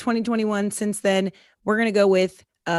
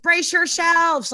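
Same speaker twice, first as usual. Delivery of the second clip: high, loud, slow dramatic warning; Holly Hunter; 9 semitones higher, 6 dB louder, much slower than usual. Retold or imitated. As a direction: bellow it like a superhero mom. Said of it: "It's like Holly Hunter in Incredibles".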